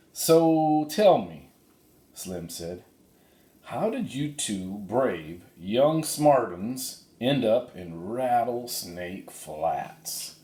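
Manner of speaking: slow, easy cowboy voice; voicing Slim. Slim asking the kids how they arrived, slow cowboy voice. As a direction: take your time like a drawling cowboy.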